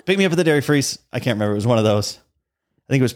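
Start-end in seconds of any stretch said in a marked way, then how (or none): 0.1-1.0 put-on kid voice. Kid's collect-call name recording.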